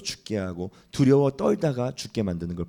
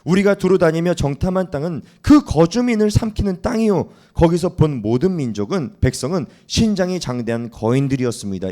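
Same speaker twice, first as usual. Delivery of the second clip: loud, raised grim report of giants; spies' grim report; 4 semitones higher, 5 dB louder than usual. Acted. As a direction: announce the danger to the crowd. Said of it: "뭐라고 하냐면 이렇게 얘기했어요". (겁먹은 정탐꾼이 백성에게 크게 외치는 불길한 보고)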